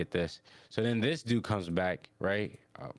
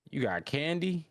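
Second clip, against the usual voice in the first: high, candy-hungry asking; eager question; 7 semitones higher than usual. Retold or imitated. Rudo asking the stranger about candy, high and eager. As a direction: ask it pitched right up, eagerly.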